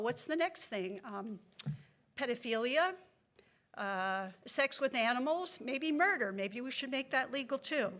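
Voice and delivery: biting sarcasm, really angry underneath; sarcastic. Real, not acted. Angry resident asking council what gets legalized next, sarcastic. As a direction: offer each absurd suggestion with angry sarcasm. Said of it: "I know I sound sarcastic".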